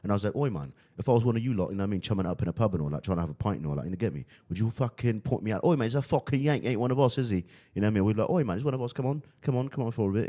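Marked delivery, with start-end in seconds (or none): 0.4-7.4 put-on chatty London pub-lad accent; British accent. Acting one of the London lot at the pub, British accent. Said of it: "talking to people every day in the accent". 8.3-10.3 put-on London lad accent, higher; British accent. London lads welcoming him along, British accent. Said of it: "talking to people every day in the accent".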